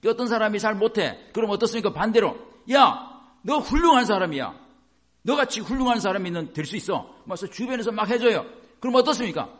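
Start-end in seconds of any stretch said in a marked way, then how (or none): 2.7-7.2 emphatic encouragement. Acted. Someone around cheers on a struggling person, emphatic encouragement. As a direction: build someone up with conviction.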